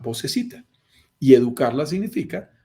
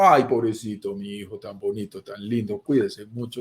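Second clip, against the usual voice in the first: mamá mimosa; 4 semitones lower than usual. Retold or imitated. Imita a las mamás.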